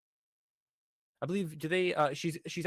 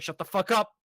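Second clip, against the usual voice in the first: mock snapping back; 5 semitones higher, 5 dB louder than usual. Retold character snapping back.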